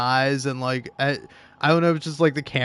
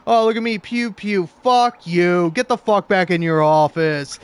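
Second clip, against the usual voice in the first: loud, mocking, higher boss rant; theatrical loud tantrum voice; hammed-up office rant; 4 semitones higher, 7 dB louder than usual. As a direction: ham it up like an angry boss. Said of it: "hamming it up".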